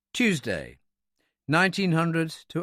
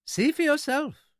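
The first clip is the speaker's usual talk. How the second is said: high, slow, agreeable little man; pleasant; slower than usual. A narrator's reading. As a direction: invite him pleasantly in a high, unhurried voice. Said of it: "the man said pleasantly".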